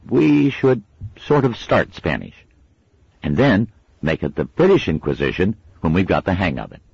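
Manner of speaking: a boy playing chief; pompous boy leader. A narrator's reading. Adam laying out plan.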